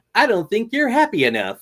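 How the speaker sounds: very high, loud, shrill, squealing cartoon dog voice. Doing a rapid-fire cartoon impression: Ren voice. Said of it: "I got Ren from Ren and Stimpy".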